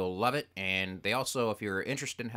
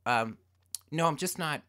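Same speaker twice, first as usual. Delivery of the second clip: lightly voiced wife on the phone, higher; imitating wife; 4 semitones higher than usual. Wife politely refusing a telemarketer, mock higher voice. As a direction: mimic her fumbling polite refusals. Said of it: "pick up the phone and go".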